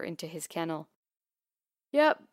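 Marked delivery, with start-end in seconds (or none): 1.9-2.2 yawned. A narrator's reading. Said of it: "I yawned".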